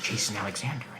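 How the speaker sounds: low, soft chewing clown voice. Acted. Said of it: "chewing clown voice".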